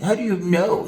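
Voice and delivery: high, squeaky mock cartoon voice; mock them like a tiny cartoon; little cartoon voice. Preacher mocking a questioner in a squeaky cartoon voice. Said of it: "See how their voice sounds ... like the little cartoon".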